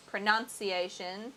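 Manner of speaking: "Pronunciation" said slowly, each syllable articulated; carefully re-say "Pronunciation" with a rising end; British pronunciation. Shown as a demonstration. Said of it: "I slip into British pronunciation".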